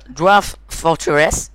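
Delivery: slow, halting English in a French accent; real French accent on the English title. Real, not acted. YouTuber reading an English game title to viewers, clumsy French accent. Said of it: "j'ai un accent de merde anglais".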